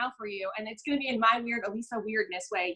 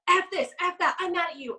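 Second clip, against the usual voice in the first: mock angry rant; 5 semitones higher than usual. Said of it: "Go yell at the world and be like".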